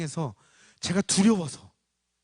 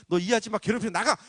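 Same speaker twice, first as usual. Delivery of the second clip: loud, raised-pitch order to get out; commanding rebuke; 7 semitones higher, 6 dB louder than usual. Retold or imitated. Father casting the spirit off the woman, reenacted loud rebuke. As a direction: drive it out with a sudden forceful command.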